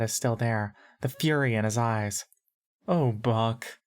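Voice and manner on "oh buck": lightly cooed; cooing. A narrator's reading. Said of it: "in a surprisingly cooing voice".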